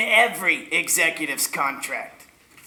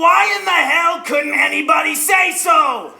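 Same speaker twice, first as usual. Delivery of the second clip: exasperated outburst; 6 semitones higher than usual. Acted. Boss exasperated that nobody told him, shouting. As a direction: blow up in exasperation.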